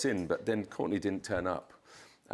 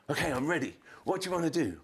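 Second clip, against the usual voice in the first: imitating Courtney; 9 semitones higher, faster than usual. Imitating Courtney turning up late.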